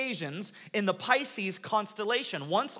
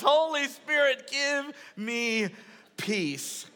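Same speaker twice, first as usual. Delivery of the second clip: milder retold yell; 4 semitones higher, slower than usual. Preacher repeating his daughter's prayer to the congregation, milder mock yell. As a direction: recap the child's yell, easing down on the last word. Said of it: "She yells".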